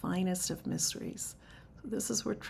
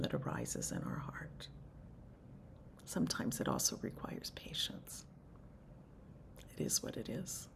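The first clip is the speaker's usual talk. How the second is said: hushed teaching; 2 semitones lower than usual. Acted. Soft meditative teaching.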